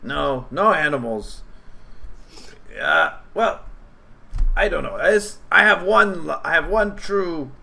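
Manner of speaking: a goblin shyly revealing his calling; hopeful goblin. Acted. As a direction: goblin telling heroes about his shoe shop dream. Goblin shares shoe dream.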